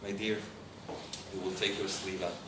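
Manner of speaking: low, soft coaxing father; gently explaining. Retold or imitated. Father preparing his little girl for a shot, gently. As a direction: ease a child into it quietly. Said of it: "I explained my daughter".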